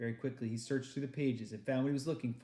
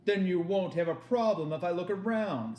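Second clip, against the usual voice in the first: menacing soldier; 5 semitones higher, 5 dB louder than usual. Acted. German soldier threatens father.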